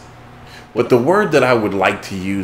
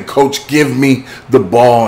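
mock yell; 4 semitones higher, 6 dB louder, slower than usual. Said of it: "And I kept screaming".

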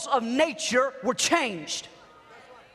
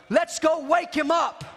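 urgent call; 5 semitones higher, 3 dB louder than usual. Acted. Disciples decide to wake Jesus.

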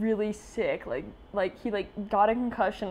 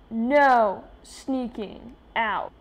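mild mock warning; 2 semitones higher, 4 dB louder, much slower than usual. Mom's warning read slowly.

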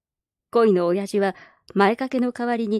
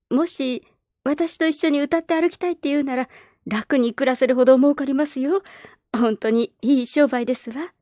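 a slightly higher, sweet coaxing lady; lightly voiced baroness; 4 semitones higher than usual. Baroness tempting the orphan girl, lightly sweet coaxing. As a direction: coax her like a kindly street singer.

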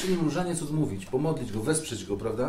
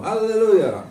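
loud, high answering Alleluja; exuberant grannies' response; 9 semitones higher, 9 dB louder, slower than usual. Acted. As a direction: belt it back with full joy. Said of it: "Babcie mówią".

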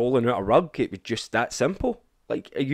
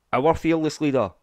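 sarcastic tone; 3 semitones higher, 3 dB louder than usual. Real, not acted. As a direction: say it with contempt. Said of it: "I say that the same tone as I say Boris".

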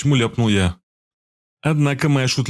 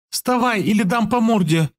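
much higher, rough threatening yell; unwomanly shout; 10 semitones higher than usual. A narrator's reading. The girl shouts a threat in a man's rough manner. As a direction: threaten him like a coarse man. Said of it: "крикнула Захария совсем уже не по-женски".

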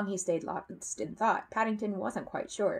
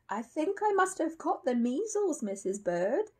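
high, frail announcement after a cough; a lightly voiced poorly little bear; weak invalid; 9 semitones higher than usual. A narrator's reading. Paddington in bed claiming measles to Mrs Bird, weakly. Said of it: "he announced weakly".

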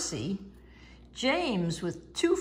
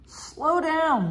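urgent warning; 7 semitones higher than usual. Acted. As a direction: warn the bus urgently. Bertie's driver sees trouble.

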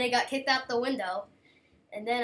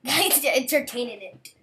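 laughing; 7 dB louder, slower than usual. Shown as a demonstration. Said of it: "That was on purpose".

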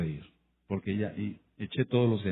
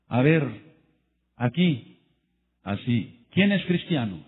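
gunman's demand; 5 dB louder, slower than usual. Retold or imitated. Armed narcos shouting at the church crowd, menacing. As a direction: bark it like an armed thug.

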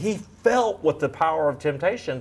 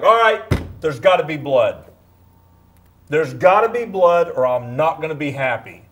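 imitating a fed-up, angry God, louder; 5 dB louder, faster than usual. Son describing a wrathful God demanding blood, mock angry. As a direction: voice the angry God he pictured as a boy. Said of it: "he's angry because he just found out".

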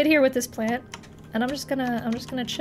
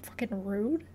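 very soft, whispered mock indignation; whispered offence; 3 semitones lower, 13 dB quieter than usual. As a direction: whisper it as if slighted. Muttered offence at narrator's insult.

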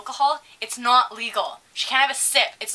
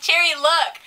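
indignant retold complaint; 3 semitones higher than usual. Server showing bartender the missing tip, indignant. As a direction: call a coworker over to witness the insult.

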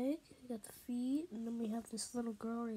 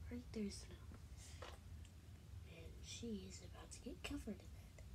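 whispering; 4 semitones lower, 11 dB quieter than usual. Real, not acted. Quiet commentary while filming.

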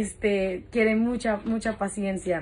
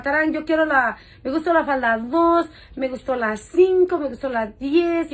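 higher, louder list, leaning on each number; eager customer; 4 semitones higher, 4 dB louder than usual. Retold or imitated. Imitating a caller who orders skirt after skirt, eagerly. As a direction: mimic an eager shopper reeling off picks.

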